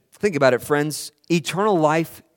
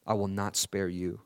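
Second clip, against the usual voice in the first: Father's grave reply; 4 semitones lower, 3 dB quieter than usual. Acted. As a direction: speak as God the Father, softly and gravely. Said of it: "And he says".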